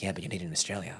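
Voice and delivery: hushed whispered voice of Spirit. Pretend. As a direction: breathe it like an inner voice. Spirit answering him.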